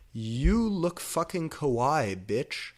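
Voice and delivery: high, loud, slow gushing praise; gushing friend. A narrator's reading. Friend admiring the gothic dress, high and gushing. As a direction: gush over the dress. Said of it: "Bloody Mary said".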